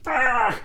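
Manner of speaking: frustrated groan. Acted. Acted thought on hitting a wall.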